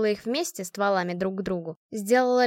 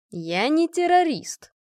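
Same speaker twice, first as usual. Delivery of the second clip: гордо; 7 semitones higher, 4 dB louder, slower than usual. A narrator's reading. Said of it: "гордо ответил Генрих".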